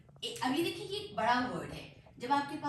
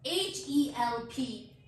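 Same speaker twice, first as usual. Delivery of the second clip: slow letter-by-letter spelling; slower than usual. Shown as a demonstration. Teacher spelling a word for learners, slow spelling. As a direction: spell it out, a small gap after each letter. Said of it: "letter spell करती हूँ".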